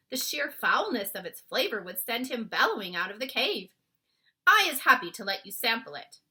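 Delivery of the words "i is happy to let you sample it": BFG voice. A narrator's reading. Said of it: "the B F G went on".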